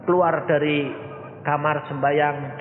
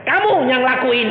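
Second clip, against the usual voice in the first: sharp raised voice giving an order; firm retold command; 12 semitones higher, 7 dB louder than usual. Pastor retelling how he ordered the man, raised and firm.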